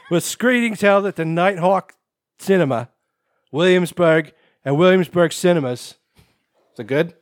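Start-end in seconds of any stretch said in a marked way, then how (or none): 0.0-5.9 put-on Brooklyn accent. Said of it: "you have to do the rest of the story in a Brooklyn accent".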